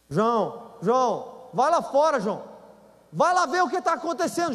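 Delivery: high urgent pleading wife; esposa aflita. Retold or imitated. Wife voiced urging husband. (esposa aflita e insistente)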